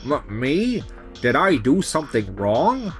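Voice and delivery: stammer, then a rising question; startled, voice swooping up at the end; taken aback. Acted. Nurse answering a patient's complaint, taken aback. Accused nurse reacts in disbelief.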